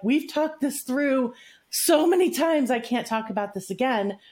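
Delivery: mildly exasperated protest; acted fed-up. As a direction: act out someone who has had enough, lightly. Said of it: "somebody gets fed up saying".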